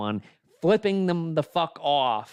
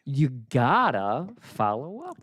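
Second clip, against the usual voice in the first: unvoiced side comment; whisper. Real, not acted. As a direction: breathe it as a private aside. Aside under the talk.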